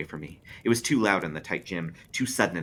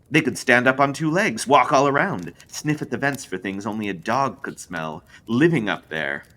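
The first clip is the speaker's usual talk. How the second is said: louder, looming spindly man; spindly man spooking the group, louder; menacing build; 7 semitones higher, 9 dB louder than usual. Acted. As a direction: grow big and menacing. Creepy tale of the dog.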